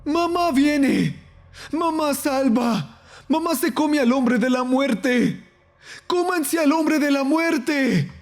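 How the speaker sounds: slow, very high creature chant; drawn-out, high-pitched creature cries; screaming chest creatures. A narrator's reading. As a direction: chant shrilly for mother to come. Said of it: "gritaban los cofres".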